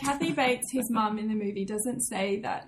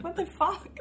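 high, laughing bafflement; retold disbelief; 7 semitones higher than usual. Retelling her reaction to "ornery", baffled. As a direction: squeak it out through a laugh. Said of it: "I'm like".

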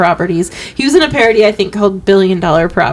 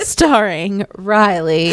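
TV credits announcer; much slower than usual. Acted. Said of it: "what would the theme song be".

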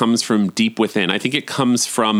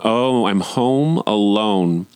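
savoring delight; slower than usual. Real, not acted. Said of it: "Just gonna interrupt for a moment".

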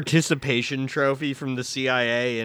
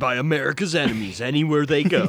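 movie trailer voice. Shown as a demonstration. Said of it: "we gotta do the movie trailer voice".

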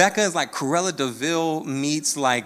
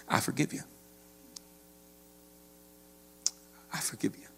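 gentle forgiveness; 10 dB quieter, faster than usual. Retold or imitated. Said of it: "in this very classically Ted Lasso way".

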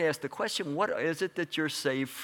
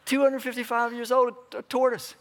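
amazed; 9 semitones higher, 4 dB louder than usual. Real, not acted. Preacher to congregation, amazed about the ancient tortoise. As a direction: pitch leaps up in astonished wonder.

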